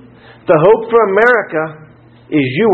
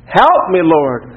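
"Help" raised, then falling away; mild acted cry; much slower than usual. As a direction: imitate Peter crying out to the Lord. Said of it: "and cried out".

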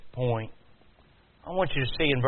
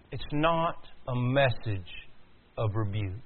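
slow, softer, with a pause before "of rebuke"; slow emphatic repeat; 3 dB quieter, slower than usual. Real, not acted. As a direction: spell it out slowly and quietly, phrase by phrase. Line repeated slowly for emphasis.

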